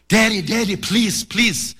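put-on a little boy pleading to be heard; excited child voice. Son Junior insists again.

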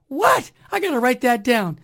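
high, astonished squeak; imitating the lady's delighted shock; amazed what. Shop lady reacts to his slogan, high and amazed.

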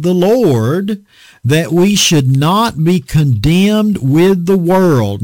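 measured, drawn-out reading of the verse; slow scripture reading. Acted. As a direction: lay each word of the scripture down slowly.

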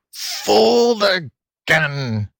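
high, very slow howl; trapped fox howling in frustration. A narrator's reading. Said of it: "howled the fox".

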